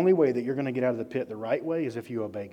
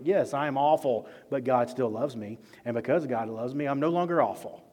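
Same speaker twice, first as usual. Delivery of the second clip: confident self-talk; 4 dB louder than usual. Pretend. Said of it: "You need to be like".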